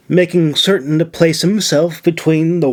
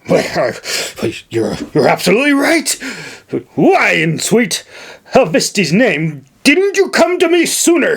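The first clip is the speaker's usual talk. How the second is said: high, sputtering outraged nobleman; indignant governor; 7 semitones higher than usual. Acted. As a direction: splutter in disbelief, pitched up. Narrator voices indignant governor.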